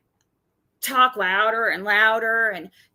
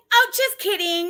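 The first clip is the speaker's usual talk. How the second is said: high, put-on fake sweetness; mock fake apology; 7 semitones higher, 4 dB louder than usual. Imitating Tiffany backing out, high and mocking. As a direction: mimic her backing out, higher. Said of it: "it's like".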